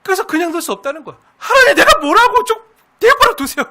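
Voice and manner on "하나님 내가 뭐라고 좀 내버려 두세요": much higher, louder, voice breaking into tears; crying plea. Acted. Believer pleading with God to be left alone, crying. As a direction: beg through tears and half-laughter.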